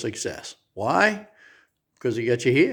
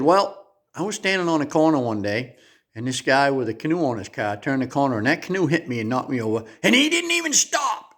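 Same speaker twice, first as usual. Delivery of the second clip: put-on old lady complaining. Old lady telling the narrator about the hit-and-run, mildly aggrieved. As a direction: tell the canoe story as an aggrieved little old lady. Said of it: "She said".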